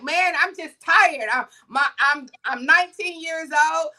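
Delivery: understated acted-out breakdown; retold breakdown. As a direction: pour it out, imitating a worn-out teenager. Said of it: "the little boy breaks down".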